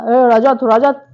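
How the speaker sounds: loud, commanding call of Rajat's name; calling out like a tough guy taking charge; bossy call-out. Retold or imitated. Karan calling Rajat out like a tough guy, loud. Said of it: "करण वहाँ पे दादा बना एकदम से".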